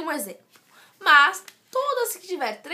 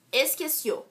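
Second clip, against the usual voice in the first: "esqueció" with the weight on the final CIÓ; stress on last syllable. Shown as a demonstration. Teacher showing an oxytone example, "esqueció" stressed at the end. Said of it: "a sílaba mais forte é o cio".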